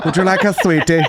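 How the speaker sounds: soft-spoken. Retold or imitated. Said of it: "that soft-spoken".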